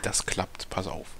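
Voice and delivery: P=A; whispering while hiding. Pretend.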